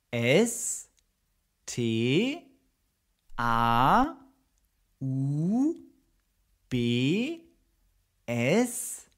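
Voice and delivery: S T A U B S A U G E R, one letter at a time with pauses; spelling it out. Shown as a demonstration. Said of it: "teacher spells Staubsauger". (Staubsauger langsam buchstabiert)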